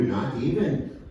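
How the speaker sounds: drawn-out, lightly put-on Indigenous accent; slow Indigenous accent. Shown as a demonstration. Comic showing the crowd how to say it, slow Indigenous accent. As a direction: model it slowly in an Indigenous accent. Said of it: "you have to say it slow".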